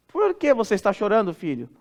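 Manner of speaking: mãe perguntando, caindo para baixinho em "filho"; pergunta por curiosidade. Acted. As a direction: pergunte ao filho querendo saber, baixando no fim. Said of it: "a primeira pergunta foi curiosidade". (pergunta curiosa de mãe)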